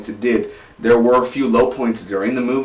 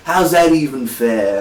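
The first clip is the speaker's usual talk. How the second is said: lightly imitated Brooklyn accent; a hint of Brooklyn accent; slower than usual. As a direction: quote the actor with a slow, rough attempt at Brooklyn. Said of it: "he does this Brooklyn accent".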